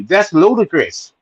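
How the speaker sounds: high, drawn-out catchphrase impression; Mike Tyson. Fan quoting the boxer on the trade, high slow impression. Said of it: "as Mike, Mike Tyson say".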